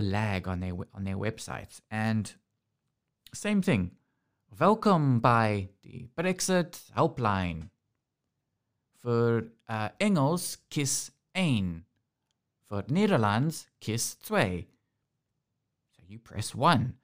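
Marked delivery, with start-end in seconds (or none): 4.6-14.7 slow, stilted recorded-menu voice; mock automated helpline greeting; automated phone menu. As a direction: read it like a robotic phone menu. Mimics automated Dutch helpline menu.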